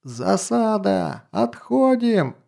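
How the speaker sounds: high, drawn-out alarm shout; enemy spotted shout. Acted. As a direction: yell the warning slowly. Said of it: "заорал".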